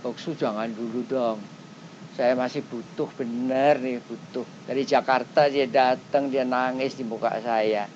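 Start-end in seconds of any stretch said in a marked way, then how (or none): 0.0-4.4 lower, softer pleading as if holding back tears; weeping visitor begging the preacher to stay; tearful pleading. Retold or imitated. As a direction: beg her not to go yet, near tears. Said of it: "ada yang nangis".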